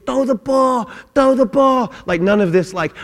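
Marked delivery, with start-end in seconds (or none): 0.1-1.9 put-on urgent higher-pitched holler at kids; mock coach yell. Coach urging little kids to make the play, mock yelling. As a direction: yell it across the field. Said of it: "I'm yelling at the little kids".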